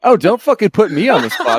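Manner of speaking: high-pitched, laughing mock outrage; laughing protest. Real, not acted. Host put on the spot by co-host, laughing protest.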